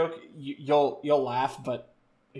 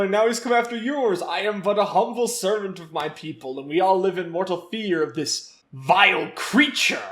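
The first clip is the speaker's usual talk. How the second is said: Knuckles voice; 3 semitones higher than usual. Retold or imitated. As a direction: declaim it like a proud guardian. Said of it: "He's like".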